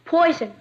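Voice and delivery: "Poison" said as English poison instead of poisson; "Poison" in plain English sounds; mispronounced French. Shown as a demonstration. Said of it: "That's pronounced poisson".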